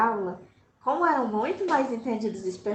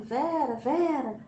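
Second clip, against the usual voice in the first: calling out; 4 semitones higher, slower than usual. Retold or imitated. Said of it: "adentrando e dizendo".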